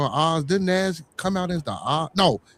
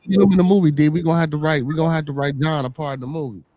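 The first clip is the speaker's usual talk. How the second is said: excited; 4 dB louder, faster than usual. Real, not acted. Excited pitch to friend.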